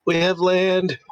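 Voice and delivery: high squeaky call of land. Acted. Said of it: "squeaky Thaumaturgy voice".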